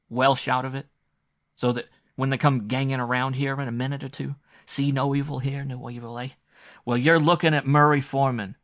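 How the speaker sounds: loud, high angry tirade; furious outburst. A narrator's reading. Sturgis furiously confronts the visitor, loud tirade.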